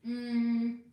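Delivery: chewing chocolate; eating chocolate. Real, not acted. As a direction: mouth full, humming. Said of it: "I have chocolate in my mouth now".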